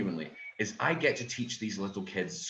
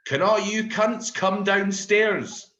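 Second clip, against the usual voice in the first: slow, loud, high bus announcement over the tannoy; the bus driver over the tannoy, mock-official and slow; public service voice; 9 semitones higher, 7 dB louder, slower than usual. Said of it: "in his best public service voice".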